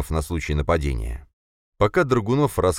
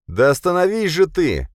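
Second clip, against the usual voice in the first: loud, much higher urgent plea; pleading shout; 12 semitones higher, 5 dB louder than usual. A narrator's reading. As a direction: try to shout sense into him. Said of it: "попытался воззвать к разуму".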